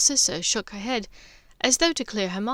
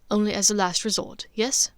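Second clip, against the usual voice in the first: placating. Acted. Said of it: "he said placatingly".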